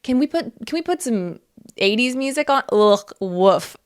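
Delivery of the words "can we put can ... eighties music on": higher, whiny objection; hint of a nagging boyfriend; mock complaining partner. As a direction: imitate an annoyed roommate, pitched up. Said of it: "nobody being like".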